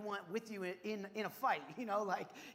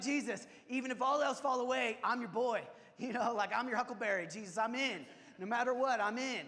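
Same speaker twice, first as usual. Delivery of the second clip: loud, earnest vow of loyalty; fervent pledge; 4 semitones higher, 6 dB louder than usual. Retold or imitated. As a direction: swear it with full conviction.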